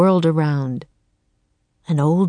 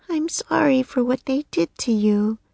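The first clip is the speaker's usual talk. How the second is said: soft; 7 semitones higher than usual. A narrator's reading. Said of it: "Annie said softly".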